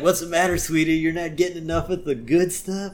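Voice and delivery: lightly put-on needling tone; real attitude. Homer joking with the boys at work, teasing with attitude. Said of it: "with a real attitude".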